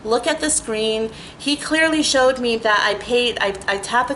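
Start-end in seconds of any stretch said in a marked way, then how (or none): 0.0-1.1 soft, slow, exaggeratedly polite plea; overly polite request. Asking the instructor to check the screen, mock polite. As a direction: sweetly ask him to just look, softer. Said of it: "and I go".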